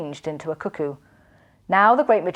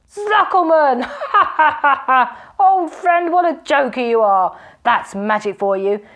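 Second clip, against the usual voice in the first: high, loud hearty laughter; jovial laughing robber; 5 semitones higher, 5 dB louder than usual. A narrator's reading. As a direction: guffaw at your old friend.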